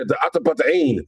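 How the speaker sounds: "Atabata'in" run together as at-uh-buh-ta-EEN; imitated mispronunciation. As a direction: imitate a learner garbling "Atabata'in". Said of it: "I was like, "The what?".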